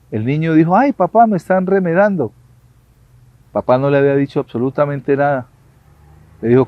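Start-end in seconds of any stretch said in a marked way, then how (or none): 0.8-2.3 put-on higher child voice, whining to papa; a boy tattling on the echo; child complaining. Boy complains to his father, higher whiny voice.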